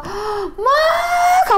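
high, drawn-out cry on the last word; imitated wailing. Retelling father's heartache, imitated wailing. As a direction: stretch it into a rising mock wail. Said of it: "아버지가 우시는데 막 펑펑 울었어".

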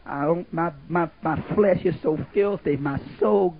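rising to an anguished cried-out plea; crying prayer. Retold or imitated. Preacher imitating a sister crying out at night, anguished. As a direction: retell a woman crying out to God at night. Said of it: "I used to hear her sometimes in the middle of the night crying".

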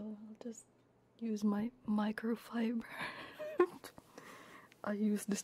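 soft whisper aside; quiet whispered aside. Real, not acted. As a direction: whisper it while wiping tears. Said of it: "wipe my face".

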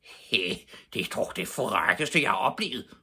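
indignant, building outburst; storyteller's irate neighbour; angry shriek. A narrator's reading. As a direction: sputter in outrage. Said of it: "skreg den vrede stemme".

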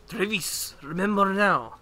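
booming wrestling announcer voice; luchador voice. Acted. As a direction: read it like a masked luchador. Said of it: "Luchador voice, engage!".

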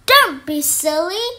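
cook. Acted. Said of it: "said the cook".

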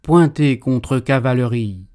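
loud barked army order; military command. Acted. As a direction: give it like an officer.

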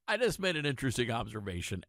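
chuckling through the line; amused, quick self-aware laugh. Real, not acted.

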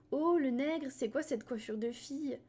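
mocking jeer. Teen bully jeering at Salim, loud and mocking. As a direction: sneer it at him from the bench.

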